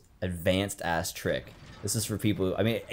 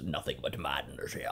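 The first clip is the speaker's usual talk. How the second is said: hushed quote; 7 semitones lower, 10 dB quieter than usual. Acted. Recalling a game quote, hushed.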